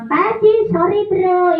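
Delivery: high, cheeky puppet apology; a puppet being cheeky instead of polite. Acted. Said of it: "Maaf, Pak Haji bilang".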